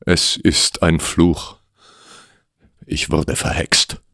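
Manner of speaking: slow, hushed admission; hushed confession. Acted. Client confesses the curse to the detective, hushed. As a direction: let it out slowly, almost without voice. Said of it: "dann brach es aus ihm heraus".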